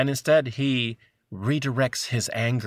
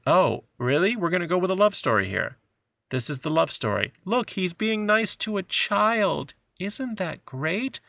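sarcastic; 5 semitones higher than usual. Retold or imitated. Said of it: "And you're like".

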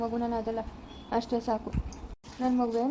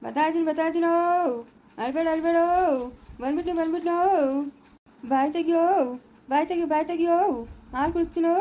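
put-on higher, lilting hush for a crying baby; sing-song baby coaxing; 5 semitones higher than usual. Mother coaxing her crying baby with milk, higher sing-song coo. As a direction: coo to calm the little one.

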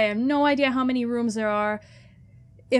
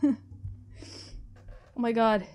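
laughing; 3 dB quieter, much slower than usual. Real, not acted. Laughing after scare.

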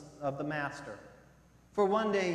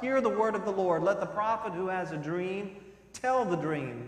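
prophet's loud, raised proclamation; calling out; 4 semitones higher, 5 dB louder than usual. Retold or imitated. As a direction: call it out like a prophet, pitched high. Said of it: "Once Jeremiah called out".

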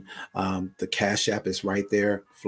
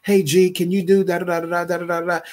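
a hint of singsong mimicry, pitched high; higher, mildly mocking voice; mock casual asker; 8 semitones higher, 4 dB louder than usual. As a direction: lightly parody the lazy request. Mimicking a careless request.

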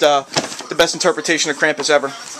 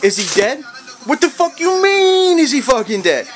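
panicked bystander; 9 semitones higher than usual. Retold or imitated. Mock panicked bystander reaction.

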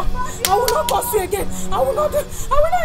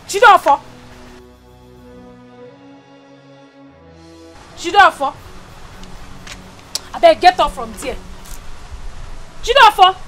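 angry scolding; 2 semitones lower than usual. Acted. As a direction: scold him up off the floor. Wife rousing husband, louder.

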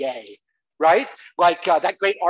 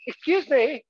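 imitating fussy mother; 3 semitones higher than usual. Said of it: "my mother would go out there and go".

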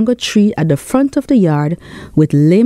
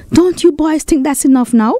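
mild shout; 6 semitones higher than usual. Acted. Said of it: "shouted Tony".

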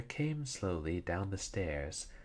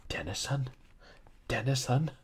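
higher, louder cry of the name; calling out; 7 semitones higher, 4 dB louder than usual. A narrator's reading. Master crying out for the doctor on hearing the cry. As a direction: call out his name in alarm, louder the second time.

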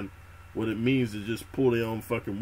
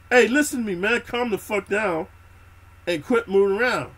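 firm command; 8 semitones higher, 6 dB louder than usual. Retold or imitated. Calming the panicking recruit.

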